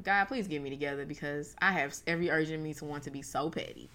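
retold in a low, soft prayer voice; quick prayer. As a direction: pray it quietly under your breath. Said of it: "say, like, a quick prayer".

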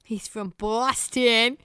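slow, drawn-out fake Boston accent; badly faked Boston accent, stretching the vowels. Co-host jokingly mimicking where he's from, bad Boston accent. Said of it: "I'm really bad at that accent".

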